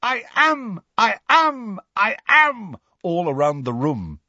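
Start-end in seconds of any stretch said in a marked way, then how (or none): 0.0-2.8 high repeated cries, like echoes; ringing, repeated high cry; ghostly echoing chorus. A narrator's reading. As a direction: echo the shout as a ghostly chorus. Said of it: "ghostly Harrys seemed to chorus".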